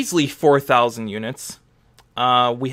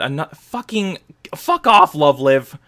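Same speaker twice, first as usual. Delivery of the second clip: exasperated outburst. Real, not acted. Exasperated at Love Live again.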